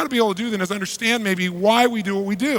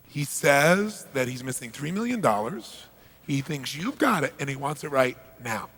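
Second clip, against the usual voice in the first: calm interpreter; 3 semitones lower, 5 dB quieter than usual. Retold or imitated. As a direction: pass it on flatly like a translator. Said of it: "Interpreter turns and says".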